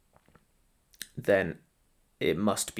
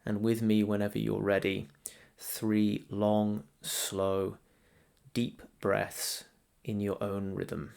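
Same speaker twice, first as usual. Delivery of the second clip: calm meditation guide, growing softer, long pauses between phrases; guided meditation; 4 dB quieter than usual. Real, not acted. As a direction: ease the listener gently into stillness, leaving space to breathe.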